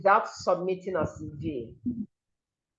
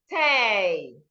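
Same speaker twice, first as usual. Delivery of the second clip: "tay" drawn out as the stressed syllable; long, emphatic "tay". Shown as a demonstration. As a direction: stretch "tay" with a falling tune. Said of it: "This is where you stress".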